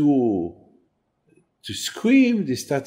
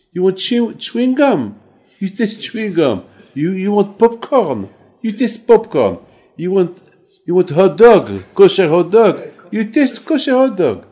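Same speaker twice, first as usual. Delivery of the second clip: rising, ever louder wonder at the manna; preacher marvelling at his flock, growing louder and higher; amazed preaching; 5 semitones higher, 5 dB louder than usual. Retold or imitated. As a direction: build up to loud excitement over every taste. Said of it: "I said".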